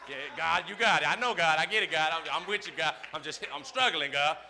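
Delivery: walk it off, talking to God; muttering self-talk. Pretend. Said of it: "I gotta walk around when stuff go down".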